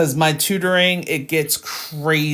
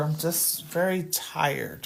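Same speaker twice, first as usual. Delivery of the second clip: slightly somber, quiet delivery. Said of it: "sorry I'm sounding a little somber".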